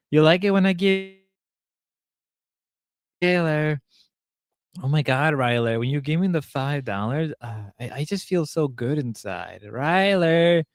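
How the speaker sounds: lightly put-on flirty streamer; Grace voice. Imitating a streamer teasing Ryler over money, mock-flirty. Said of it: "I'll do the voice a little longer".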